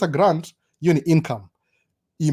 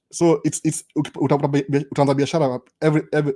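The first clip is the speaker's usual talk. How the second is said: stumbling over words; stammering, restarting syllables; stuttering. Real, not acted. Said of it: "I'm stuttering".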